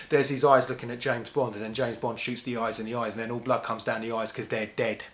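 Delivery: lightly voiced schoolkid, breathless run-on retelling; playground child. Schoolboy telling mates about James Bond's opening, lightly imitated childish run-on. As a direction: rattle it off like a kid in the playground. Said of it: "put it into the playground parlance".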